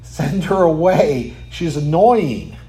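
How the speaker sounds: drawn-out, mock-irritated complaint; annoyed disciples. Disciples wanting the woman gone, mock annoyed. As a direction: drag it out, imitating fed-up followers. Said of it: "what did the disciples say?".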